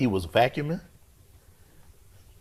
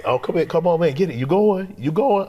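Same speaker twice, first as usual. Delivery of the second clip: frantic self-talk; 7 semitones higher, 5 dB louder than usual. Retold or imitated.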